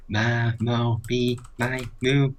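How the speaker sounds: high, loud sing-song syllables; mock guessing. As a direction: rattle off name sounds in a high sing-song. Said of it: "You were like".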